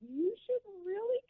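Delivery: mentor's advice. Retold or imitated. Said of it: "he's like, he's like".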